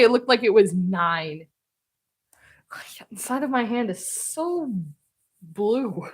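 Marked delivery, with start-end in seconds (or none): 2.7-6.1 whispered, softer. Real, not acted. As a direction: breathe the words without voice. Repeats the remark whispered.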